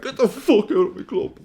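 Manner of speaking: high, loud mock yell at the newcomer; mock outrage. Fan imagining telling off the new manager, high mock yell. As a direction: bark it like a fan defending his club. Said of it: "I personally would have been like".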